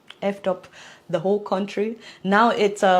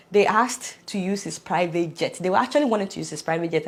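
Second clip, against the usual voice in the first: usual speaking voice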